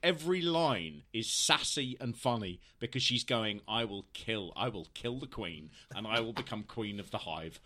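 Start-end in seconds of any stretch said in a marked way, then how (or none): 3.7-7.6 imagined ruthless schemer, low and measured; merciless. Retold or imitated. Imagining a stand-in presenter's secret ambition, merciless. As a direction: plot a takeover in a lowered, quieter voice. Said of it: "She's merciless".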